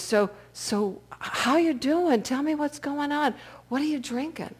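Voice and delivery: a hint of a kindly old man; lightly voiced old man. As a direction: ease into small talk as a gentle elder. Old man chats with drunk.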